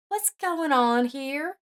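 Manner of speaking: slow, high, baffled question; confused. A narrator's reading. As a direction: ask in bewildered disbelief. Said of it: "The landlady was confused".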